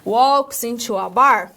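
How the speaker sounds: slow, careful English line; slow demo English. Shown as a demonstration. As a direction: say it slowly, word by word. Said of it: "da nossa piada lá".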